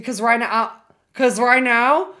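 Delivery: from plain rising to high, slow shout; hype-building chant. Real, not acted. Builds up hype repeating phrase.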